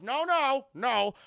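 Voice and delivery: loud, solemn hammed-up vow; loud mock-solemn sacrifice speech; grand declaration. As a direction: proclaim it like a noble hero. Dad declares his sacrifice.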